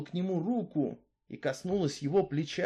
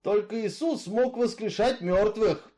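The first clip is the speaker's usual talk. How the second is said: louder, steady outlaw's voice, arguing his case; Misfit, brooding killer; 6 semitones higher, 3 dB louder than usual. Acted. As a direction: tell her your grievance, hard and level. Misfit speaks. (голос Изгоя, громче и жёстче)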